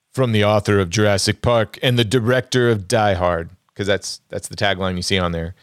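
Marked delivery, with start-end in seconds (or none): 0.1-3.5 lightly voiced trailer narrator; attempted trailer voice. Shown as a demonstration. Host reading poster taglines aloud, attempted trailer voice. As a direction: read it like a movie tagline. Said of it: "I'll try and do it in the trailer voice".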